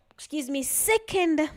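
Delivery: hiccuping mid-sentence; with hiccups. Real, not acted. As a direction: apologize through a hiccup. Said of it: "Sorry about the hiccups".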